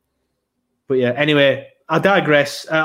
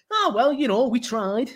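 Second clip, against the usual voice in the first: resigned fan; 7 semitones higher, 3 dB quieter, slower than usual. Retold or imitated. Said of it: "honestly, it goes from".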